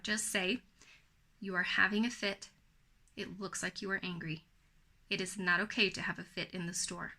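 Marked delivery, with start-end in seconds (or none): 1.4-7.2 level and firm, never raised; firm, not angry. Shown as a demonstration. Mom telling her child it is not okay, firm and calm. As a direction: set the limit calmly without yelling. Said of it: "notice I'm not yelling, I'm not angry, but I am firm".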